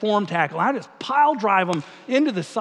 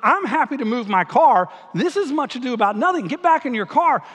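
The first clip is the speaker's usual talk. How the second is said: mock peacemaker; 4 semitones higher than usual.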